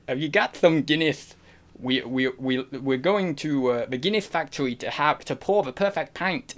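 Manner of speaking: wavering Irish accent that drifts off. Shown as a demonstration. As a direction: attempt Irish and gradually lose it. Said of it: "it just goes off".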